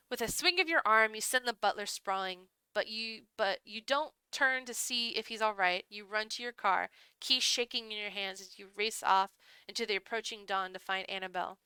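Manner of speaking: measured, hushed-drama storytelling; story narration. A narrator's reading. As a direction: read it like a dark visual novel. Reads the game's story aloud.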